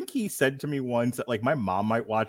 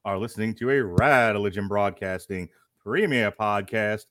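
ringmaster; 4 dB louder than usual. Acted. Ringmaster style podcast intro.

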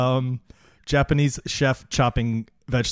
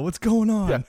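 high mock confusion; 9 semitones higher, 3 dB louder, slower than usual. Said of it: "He's gonna get all this angry mail".

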